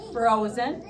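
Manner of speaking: frozen beat out syllable by syllable; pounded syllables. Shown as a demonstration. Teacher to class, beating out syllables firmly. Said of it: "Let's pound it".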